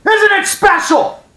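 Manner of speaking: high, slow, loud mock shriek; sarcastic shriek. Fan screeching sarcasm at the new name.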